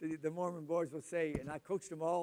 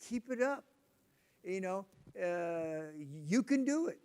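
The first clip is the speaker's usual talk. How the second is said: encouraging; slower than usual. Retold or imitated. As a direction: lift the kid up with praise. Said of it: "you gotta keep telling 'em".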